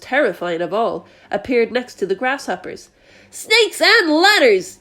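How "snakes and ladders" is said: high, loud, slow exclamation; shocked yell. A narrator's reading. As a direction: bellow it in horror. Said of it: "yelled the head of the fire department".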